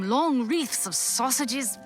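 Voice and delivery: ordinary talk, nothing marked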